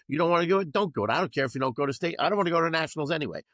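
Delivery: mock a pouting coach making it about himself; self-centered petulance. Coach mocking his own selfish reaction, petulant fast whine. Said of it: "that makes me look like it's all about me".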